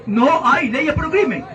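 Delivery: slow mocking parrot with a laugh; slow laughing mockery of a rival's denial; mocking Keiko. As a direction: repeat her line slowly, laughing at it. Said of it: "¿Qué dice Keiko?".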